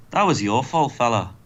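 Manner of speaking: a hint of a mock Irish accent; lightly voiced, unconvincing Irish lilt; attempted Irish accent. Podcaster voicing Finn teasing Kurt, attempted Irish accent. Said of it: "That's not an Irish accent".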